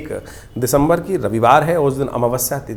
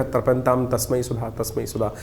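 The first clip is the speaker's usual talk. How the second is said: quiet mantra recital; 3 semitones lower, 6 dB quieter than usual. Shown as a demonstration. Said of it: "कम से कम थोड़ा तिल लेकर".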